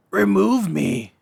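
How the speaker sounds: loud, high, pleading cry; exclaimed. Acted. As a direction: cry out desperate to escape. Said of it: "Scrooge exclaimed".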